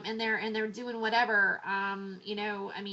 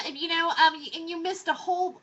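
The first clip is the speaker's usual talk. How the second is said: ordinary talk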